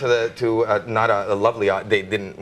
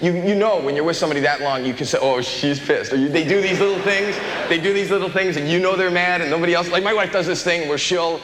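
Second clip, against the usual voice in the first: high whiny voice; 6 semitones higher than usual. Acted. High-pitched Bobby voice bit.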